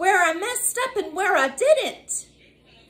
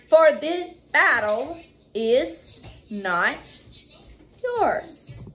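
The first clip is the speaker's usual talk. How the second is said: slow, stretched out with a lift on yours; drawn-out scripture; 2 semitones lower, much slower than usual. Acted. Preacher to congregation, slow drawn-out line. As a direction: hold each word for the church.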